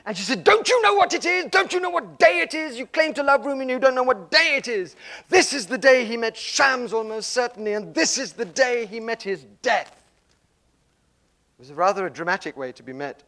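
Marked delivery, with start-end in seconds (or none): 0.4-9.9 high, loud, breathless indignation; indignant outburst. Retold or imitated. Ava at her door, scolding her friend, high and indignant. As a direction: scold him as if he should know this.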